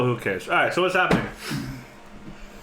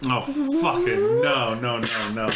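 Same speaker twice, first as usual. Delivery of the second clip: dismayed groan; slower than usual. Real, not acted. Dreading the snipers appearing.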